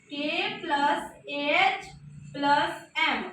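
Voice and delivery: के plus एएच plus एम spelled out piece by piece, slowly; slow breakdown. Shown as a demonstration. Teacher spelling out the parts of the word slowly. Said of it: "के और एम".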